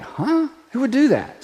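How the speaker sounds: scoffing huh, who would do that; mock disbelief, rising huh; playful scoff; incredulous attitude. Shown as a demonstration. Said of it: "a little attitude like".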